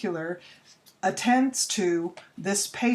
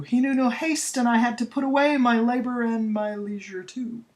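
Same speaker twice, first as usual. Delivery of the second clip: rushing through; 5 semitones higher, 3 dB louder than usual. Shown as a demonstration. Teacher showing students how an enjambed line rushes on. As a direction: run straight over the line break without pausing. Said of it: "you rush through".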